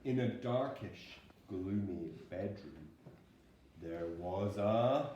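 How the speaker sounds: slow, hushed spooky opening; spooky storytelling. A narrator's reading. Parent reading a bedtime story to child, slow and spooky. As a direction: draw the listener into the dark house.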